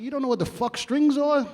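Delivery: high, disbelieving outburst; can't believe he doesn't know; incredulous. Retold or imitated. Mocking exec's ignorance.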